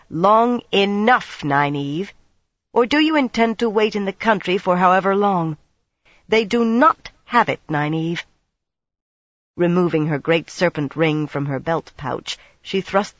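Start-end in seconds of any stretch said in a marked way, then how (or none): 0.1-8.2 cold and impatient. Acted. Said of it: "in a wintry voice".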